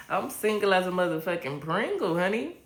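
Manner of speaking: laughing, sassy echo of Pringle; reading the comment back to chat, sassy; sassy repeat. Acted. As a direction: throw it back with playful sass.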